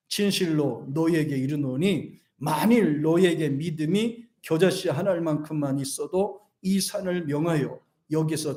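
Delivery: deliberate, evenly paced verse reading; scripture reading. Acted. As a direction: lead the congregation through the verse. Leads congregation reading scripture.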